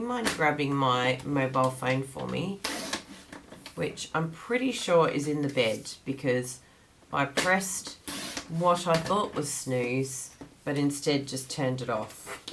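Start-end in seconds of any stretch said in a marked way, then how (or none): 3.8-12.4 groggy just-woke-up voice; morning voice. Real, not acted. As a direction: sound freshly out of bed. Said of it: "Hence my beautiful morning voice".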